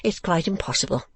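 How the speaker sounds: high-pitched, self-important lady refusing a suitor; Mrs Nickleby, protesting. Acted. Lady rebuffing her suitor before her daughter, primly protesting. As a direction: pitch it high and lively, solemnly declining.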